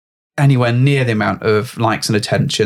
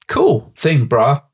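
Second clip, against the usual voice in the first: gym bro; 2 semitones higher, much slower than usual. Pretend. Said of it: "Maybe not like that".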